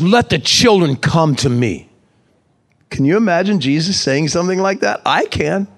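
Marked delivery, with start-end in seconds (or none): 0.0-1.9 slow, firm mild scolding; mildly angry, words drawn out. Acted. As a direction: read it as a measured angry rebuke. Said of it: "can I read this in an angry voice?".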